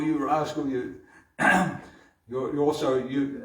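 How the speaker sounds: a mother teasing her caught son; affectionate mock reprimand; scolding mother. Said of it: "challenges him more".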